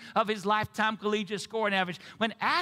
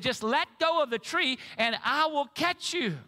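mild mock boom, pitched higher; lightly voiced God answering from heaven; 5 semitones higher than usual. Preacher voicing God answering the man, mild booming. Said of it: "the booming voice said".

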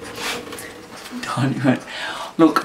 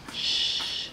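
whispered shh to settle a puppy; soft unvoiced shushing; hushed shushing; 12 dB quieter than usual. Real, not acted. Whispering to a sleepy puppy in bed, hushed.

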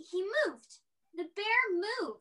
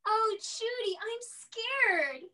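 mock fear; 3 semitones higher, slower than usual. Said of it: "let's pretend we're really afraid of him".

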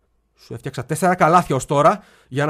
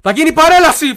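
high, very loud wailing scream; 13 semitones higher, 13 dB louder than usual. Retold or imitated. Screaming the news at his departing father. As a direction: scream it out in despair. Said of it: "φώναξα".

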